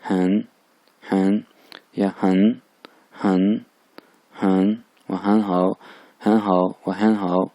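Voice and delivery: slow, careful Chinese syllables; teacher drilling Chinese sounds; Chinese syllables demonstrated. Shown as a demonstration. Teacher demonstrating Chinese pronunciation to students, careful and clear. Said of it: "इन दोनों तरह pronounce कर सकते हैं".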